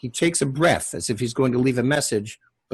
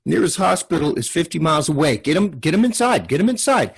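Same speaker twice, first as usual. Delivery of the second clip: high, loud, urgent commands; frantic pleading mother; 6 semitones higher, 4 dB louder than usual. Acted. Mother pleading with Addie over her bleeding son, high and loud. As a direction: push them to get the boy inside now.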